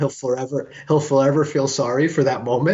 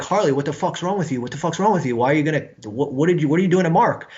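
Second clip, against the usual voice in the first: higher, tumbling retold protest; alarmed reproach; 3 semitones higher, faster than usual. Bandmates pulling the attacker off, imitated in alarmed reproach. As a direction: imitate friends demanding an explanation.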